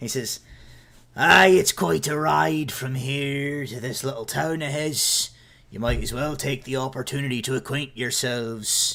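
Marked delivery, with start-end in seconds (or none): 1.2-9.0 put-on Scottish accent, character voice. A narrator voices Thorn calling from the back to the boys; Scottish accent. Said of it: "I'm getting Scottish again".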